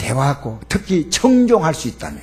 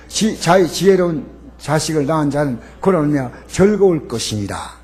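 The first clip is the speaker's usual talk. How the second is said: scripture reading. Acted.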